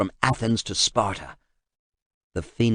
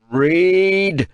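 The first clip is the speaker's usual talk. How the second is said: higher, louder single-word order; shouted command; 9 semitones higher, 6 dB louder than usual. Acted. Kratos ordering the translator, loud command. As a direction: roar the order.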